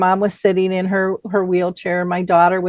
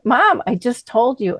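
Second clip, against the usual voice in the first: exasperated; 4 semitones higher than usual. Retold or imitated. Daughter protesting mom's questioning.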